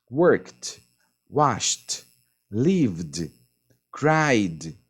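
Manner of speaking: "worked", "washed", "lived", "cried" each said carefully on its own; teacher giving example words; pronunciation examples. Shown as a demonstration. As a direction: list the past forms one by one, crisp endings. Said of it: "as três formas das pronúncias".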